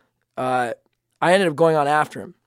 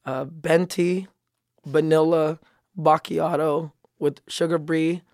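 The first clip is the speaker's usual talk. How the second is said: put-on Filipino accent; slower than usual. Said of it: "You're just Filipino right now".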